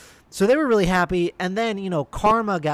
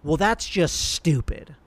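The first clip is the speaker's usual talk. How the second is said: snarky; slower than usual. Retold or imitated. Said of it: "in a really, like, snarky tone".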